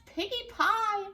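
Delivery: a greedy witch relishing the words; high, loud drawn-out witch delight; gleeful witch voice. Acted. Gritch the witch voiced in story.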